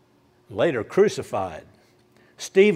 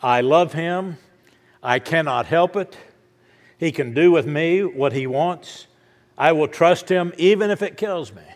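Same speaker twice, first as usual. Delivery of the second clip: fervent quote; 3 semitones higher, 4 dB louder than usual. Retold or imitated. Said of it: "Somebody said".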